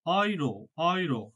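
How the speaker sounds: slow অয়রো, said "oy-ro"; unhurried German অয়রো; German pronunciation. Shown as a demonstration. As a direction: repeat অয়রো slowly with an opening "oy". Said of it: "German ভাষায় যদি বলি".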